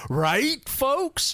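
high, hammed-up nudge to the audience; hammy aside. Actor turning to the camera after a joke, hammy. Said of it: "it's very hammy".

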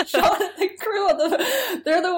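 words breaking up into laughter; laughing. Real, not acted. Podcaster cracking up at her own theory, laughing. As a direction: giggle through it as the joke lands.

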